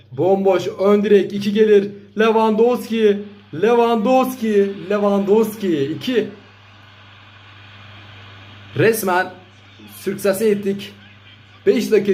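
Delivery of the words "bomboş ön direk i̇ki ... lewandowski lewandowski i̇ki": excited commentator. Real, not acted. Goal chance, excited commentary.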